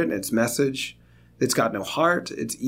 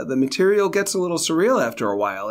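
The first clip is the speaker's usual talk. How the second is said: ordinary talk, nothing marked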